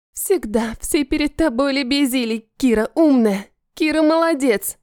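growling. Acted. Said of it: "рычит она".

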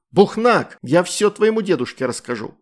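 furious shout. A narrator's reading. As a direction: yell right into the kitten's face. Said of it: "крикнула прямо в мордочку". (громкий крик прямо в мордочку)

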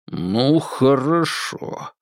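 slow, grudging хорошо squeezed out; through the teeth. Acted. Babkin grudgingly giving in to Polina, slow and strained. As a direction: drag out хорошо, barely holding back. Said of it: "процедил он".

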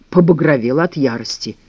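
ordinary delivery

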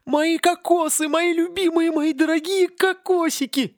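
high, slow frenzied tree voice; raging palm tree. Acted. Palm raging over its stolen coconuts, high and frenzied. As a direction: rave over your beloved coconuts. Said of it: "неистовала пальма".

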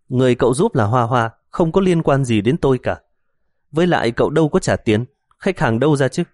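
mocking. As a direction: scoff at him playfully. Hồng mocking Ngọc, arms crossed.

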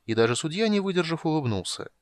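plain reading voice

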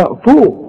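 طوخ with a full emphatic ta; tajweed emphatic ta; heavy ta. Shown as a demonstration. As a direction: darken the ta in طوخ. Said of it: "الطاء مفخمة دائمًا".

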